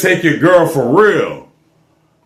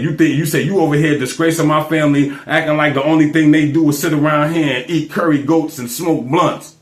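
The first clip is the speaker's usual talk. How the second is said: lightly voiced dad, somewhat lower; retold fatherly scolding; 5 semitones lower than usual. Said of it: "he said".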